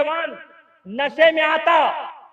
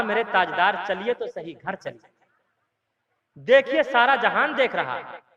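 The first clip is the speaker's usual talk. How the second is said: much softer, lower coaxing; soft pleading; 6 semitones lower, 6 dB quieter than usual. Retold or imitated. Wife to drunk husband in pit, soft lower pleading. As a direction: gently urge him home.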